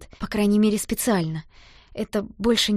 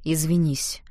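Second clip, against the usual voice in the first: hollow voice; 3 semitones lower, slower than usual. Acted. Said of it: "сказал глухим голосом".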